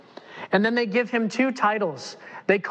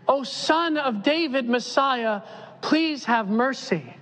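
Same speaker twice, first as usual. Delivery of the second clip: pleading; 6 semitones higher than usual. Acted. Blind men begging Jesus.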